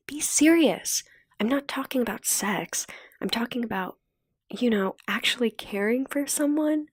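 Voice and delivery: a hint of sharp rebuke; hard Cookie. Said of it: "her voice turned hard".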